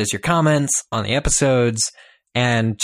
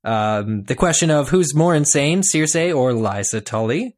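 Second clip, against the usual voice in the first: loud, hurried reading of tweets; rushed tweet reading; 3 semitones higher, 3 dB louder than usual. Acted. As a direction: race through them against the clock. Racing through tweets in time.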